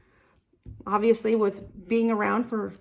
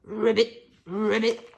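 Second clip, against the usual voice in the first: frog ribbit. Acted. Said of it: "ribbit like a frog".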